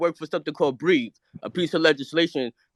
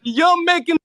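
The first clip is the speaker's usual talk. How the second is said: real exasperated outburst; 11 semitones higher, slower than usual. Real, not acted. Guest challenging host over making fun of Taz, exasperated. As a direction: throw the question at them in heated protest.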